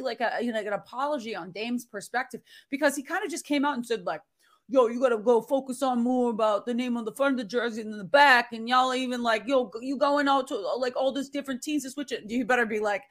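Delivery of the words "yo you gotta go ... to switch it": lightly voiced Dame Lillard, casual; a hint of Dame talking street; Dame Lillard impression. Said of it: "that's a terrible Dame impression".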